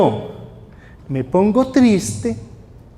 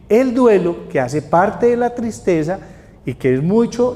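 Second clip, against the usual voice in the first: ordinary talk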